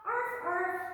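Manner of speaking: playful arf arf; puppy bark. Pretend. Teacher as puppy dog in kids yoga, playful arf. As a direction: yip like a puppy. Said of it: "let's see your puppy dog".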